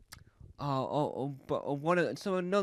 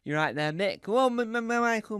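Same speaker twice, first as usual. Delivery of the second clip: normal talking voice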